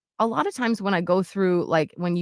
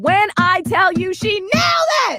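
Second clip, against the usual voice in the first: proud shout; 12 semitones higher, 7 dB louder than usual. Real, not acted. Proudly recounting the reading.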